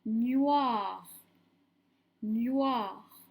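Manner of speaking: drawn-out dictated syllable; dictation voice. Shown as a demonstration. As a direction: dictate it slowly and clearly to a class. Teacher dictating syllables to pupils.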